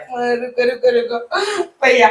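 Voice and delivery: mock-sobbing plea; hammed-up weepy begging; tearful. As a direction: plead through sobs to take him away. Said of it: "आप रोना मत करो".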